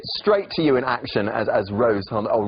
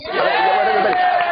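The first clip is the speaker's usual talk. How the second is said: emphatic shout; 5 dB louder than usual. Real, not acted. Repeats compliment to the crowd.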